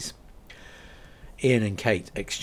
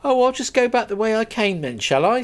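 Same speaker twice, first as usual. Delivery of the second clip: sarcastic; 13 semitones higher, 8 dB louder than usual. Acted. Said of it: "said Kate".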